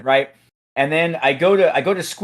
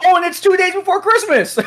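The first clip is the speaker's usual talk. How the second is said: laughing; 3 dB louder than usual. Real, not acted. Laughing at the absurdity.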